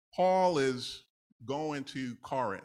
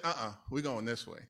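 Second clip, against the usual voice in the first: lower, softer, calm correction; voice of the Lord; 4 semitones lower, 6 dB quieter than usual. Retold or imitated. The Lord answering the preacher, lower and softer. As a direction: gently overrule him as God would. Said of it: "And the Lord said".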